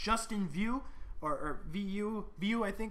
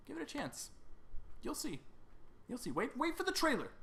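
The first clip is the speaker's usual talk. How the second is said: high-pitched, half-playful coaxing; mock pleading; 8 semitones higher, 4 dB quieter than usual. Host promising the trailer will convince them, high mock plea. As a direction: coax them in a high little voice.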